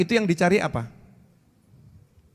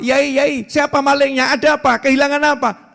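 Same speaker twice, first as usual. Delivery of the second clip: alarmed villagers; 7 semitones higher than usual. Retold or imitated. Villagers running out to ask the cleric what happened. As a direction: ask like neighbours rushing out. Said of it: "Satu kampung keluar semua".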